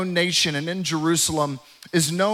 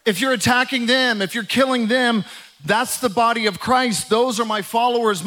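preaching at full force; 3 semitones higher than usual. Acted. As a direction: preach it like a firm proclamation. Preaches Jesus' words forcefully.

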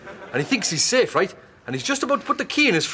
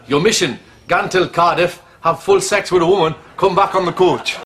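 mock SAS mission orders, louder; mock mission briefing; 5 dB louder than usual. Briefing himself on his mission home to Cardiff, mock military orders. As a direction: read it out like a covert ops briefing. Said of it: "sort of like a S A S operation".

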